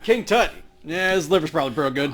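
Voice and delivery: loud, quick playful reply; excited joking. Real, not acted. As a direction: toss the joke out with energy.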